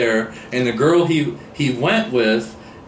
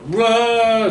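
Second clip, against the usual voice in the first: high surprised whoa; a sudden high whoa of shock; startled whoa; 11 semitones higher, 3 dB louder than usual. Retold or imitated. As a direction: blurt it out, caught off guard. Lenina reacting to Bernard.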